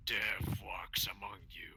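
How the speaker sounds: slow whispered edgelord line; brooding fake-deep mutter. Shown as a demonstration. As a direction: breathe it out, slow and ominous. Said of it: "I need an edgelord voice line".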